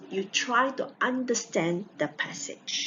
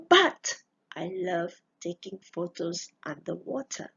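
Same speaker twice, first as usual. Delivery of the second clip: reading a passage aloud. Shown as a demonstration. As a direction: clear classroom read-aloud of a student text. Teacher reads passage again.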